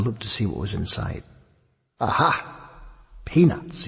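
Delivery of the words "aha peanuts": high, bright little gasp of discovery; thrilled to find the peanuts; delighted. A narrator's reading. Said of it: "he said delightedly".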